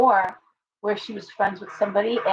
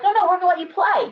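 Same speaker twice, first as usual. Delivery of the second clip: hurried club official; 10 semitones higher, 4 dB louder, faster than usual. Retold or imitated. Clubs voiced, hurried backpedal.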